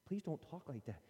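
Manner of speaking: soft, slow, pained pleading; hurt plea. Retold or imitated. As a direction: plead gently, wounded. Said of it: "and you're like".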